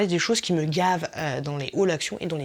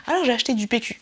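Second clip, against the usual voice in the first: higher-pitched haul-video voice; mock vlogger; 5 semitones higher, 3 dB louder, faster than usual. Imitating a vlogger showing purchases, mock presenter voice. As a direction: announce the purchase like a chirpy vlogger. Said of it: "J'ai lu ça dans plein de vlogs".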